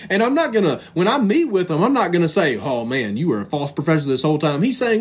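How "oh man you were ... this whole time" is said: dropped low and quick, a scornful brush-off; mock dismissive verdict. Preacher mocking a harsh minister's verdict, low scornful brush-off. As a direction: toss it off like a cold preacher.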